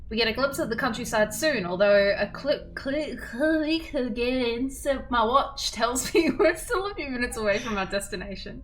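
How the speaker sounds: steady narration of a visual novel; story narration. A narrator's reading. Narrator reading the game text aloud. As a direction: read the scene to listeners.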